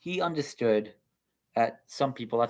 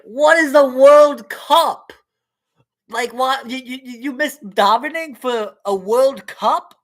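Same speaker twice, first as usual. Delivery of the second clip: shocked rabbi; 12 semitones higher, 10 dB louder than usual. Acted. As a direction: squeak out the outrage. Rabbi shocked at World Cup.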